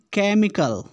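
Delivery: केमिकल opening on a hard K. Shown as a demonstration. Teacher compares the options for students, केमिकल with a K sound. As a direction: start केमिकल with "ka", not "cha". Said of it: "का, का उच्चारण दे रहा है".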